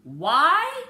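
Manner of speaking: a lightly voiced father repeating. A narrator's reading. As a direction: echo her question back, teasing. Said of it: "he repeats".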